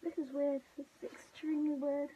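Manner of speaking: excited, amused disbelief; giddy. Real, not acted. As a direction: say it half laughing. Putting on the suit.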